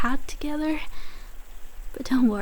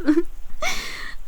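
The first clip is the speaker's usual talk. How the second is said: scoffing laugh; 5 semitones higher than usual. Acted. Scoffing at the nurse's advice.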